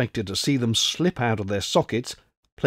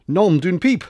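French oath; 7 semitones higher, 6 dB louder than usual. Acted.

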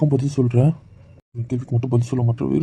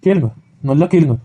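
sarcastic egging on; 3 semitones higher, 7 dB louder than usual. Acted. Husband eggs on the scolding.

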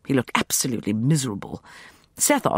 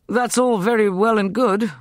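louder, higher peevish complaint; 8 semitones higher, 5 dB louder than usual. A narrator's reading. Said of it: "said Walter peevishly".

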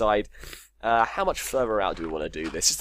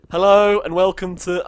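bright announcer hello, higher and louder; Dead Wombat TV voice; 7 semitones higher, 8 dB louder than usual. Pretend. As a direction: open like a hyped YouTube host. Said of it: "I always do my Dead Wombat T V voice for this".

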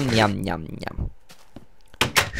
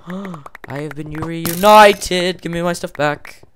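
slow, higher, louder triumphant announcement; joyful gasp; 6 semitones higher, 8 dB louder, slower than usual. Real, not acted. Gamer finding his lost items, slow and overjoyed. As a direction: savour the reunion.

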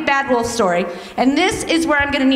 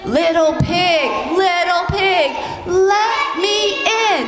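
slow wolf call climbing higher; wolf at the door; 4 semitones higher, slower than usual. Acted. Wolf calling to the pig at the door, slow and rising. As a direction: coax the pig like a sly wolf. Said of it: "He says".

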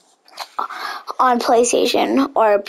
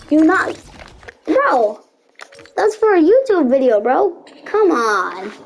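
higher, fast pleading; exasperated plea; 4 semitones higher than usual. Real, not acted. Streamer pleading with teammate over the YouTube video, exasperated. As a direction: plead with him urgently.

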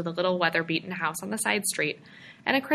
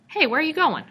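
calling after someone, raised voice; 10 semitones higher, 5 dB louder than usual. A narrator's reading. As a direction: call out loudly. Calling after fleeing George.

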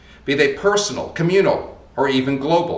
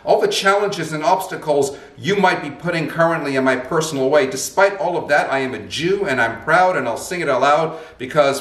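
raised, proud and emphatic; bold declaration; 3 semitones higher than usual. Shown as a demonstration. Speaker boldly declares Jewish pride before God, raised and emphatic. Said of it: "Be bold and wave your badge before God and declare".

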